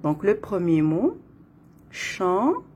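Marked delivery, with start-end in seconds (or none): 1.9-2.6 "chandail" in two beats, first part rising; split into syllables. Shown as a demonstration. Teacher counting syllables in the first word, split into syllables. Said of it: "Donc, deux syllabes".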